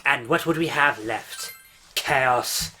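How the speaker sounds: lightly voiced ominous schemer; a hint of a put-on character voice; mildly theatrical doom-laden read; Varys. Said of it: "Uh, Varys".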